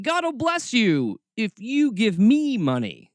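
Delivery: mock televangelist. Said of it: "the scummy snake oil salesman".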